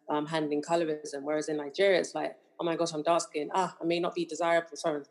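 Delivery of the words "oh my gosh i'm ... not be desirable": hint of a Nigerian accent; slipping Nigerian accent. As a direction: let a Nigerian accent creep in. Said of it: "a bit of a Nigerian accent just came out there".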